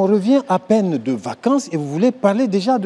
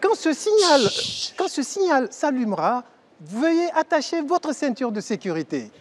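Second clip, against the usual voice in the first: flight attendant announcement; 3 semitones higher than usual. Acted. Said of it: "C'est moi, l'hôtesse".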